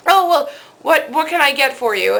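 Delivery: lightly imitated Italian accent. Italian counterman takes her order, lightly imitated Italian accent. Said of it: "in this very thick Italian accent".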